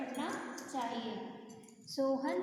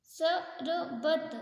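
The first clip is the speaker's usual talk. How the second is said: slow reading; 2 semitones higher, 3 dB louder, much slower than usual. Shown as a demonstration. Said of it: "र, और।".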